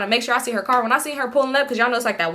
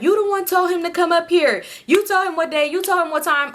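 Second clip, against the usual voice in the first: retold accusation; 6 semitones higher than usual. Friend's acted accusation in quarrel.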